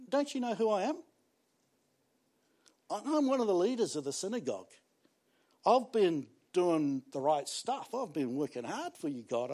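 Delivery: Jairus protesting. Retold or imitated. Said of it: "he could have gone".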